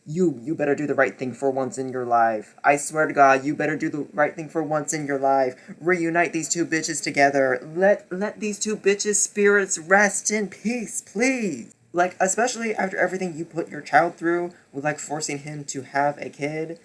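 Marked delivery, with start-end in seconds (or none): 0.1-11.7 firm, pleading threat; insistent demand; stern warning. Retold or imitated. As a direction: lay down the law. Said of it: "I was like".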